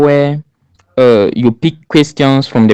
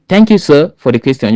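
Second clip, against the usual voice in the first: polite thanks; 3 semitones higher than usual. Shown as a demonstration. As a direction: open by politely thanking the jury. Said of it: "you can say".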